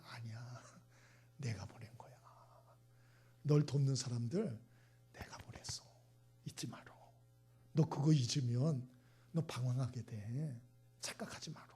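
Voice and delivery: low, near-whispered correction; acted quiet, breath-heavy admonition; hushed voice of God. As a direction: speak very softly, intimately, as God. Acts God gently correcting the listener.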